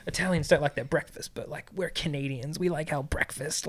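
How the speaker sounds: mock Canadian tourist accent; lightly mimicked Canadian accent; put-on Canadian accent. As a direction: imitate a Canadian accent, plainly stating a preference. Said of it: "put the accent on while I talk".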